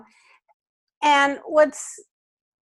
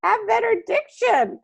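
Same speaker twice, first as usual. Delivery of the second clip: stern father; 8 semitones higher than usual. Acted. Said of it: "And then your father says".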